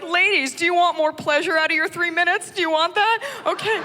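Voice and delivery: high, breathy-sounding pitch of a sultry commercial; seductive ad voice. Retold or imitated. Ad voice luring the ladies, high and coaxing. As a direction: purr it like a late-night ad. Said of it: "They're like".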